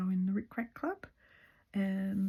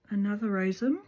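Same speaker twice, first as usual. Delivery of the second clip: speaking with thread between lips; thread in mouth; 2 semitones higher, 3 dB louder than usual. Real, not acted. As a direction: talk around a thread held in the mouth. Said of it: "got the thread in my mouth there".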